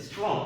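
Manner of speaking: স্ট্রং said in one unbroken beat; one-syllable demo. Shown as a demonstration. Teacher showing a one-syllable word, স্ট্রং in one beat. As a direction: say স্ট্রং in a single pull, without breaking it. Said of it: "একটা উচ্চারণ করতে পারছি".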